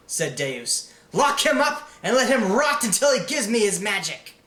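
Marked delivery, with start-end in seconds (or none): 1.1-4.3 high, loud, harsh royal command; commanding villain. Acted. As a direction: lock him away with cold cruelty. Deus orders prisoner locked up.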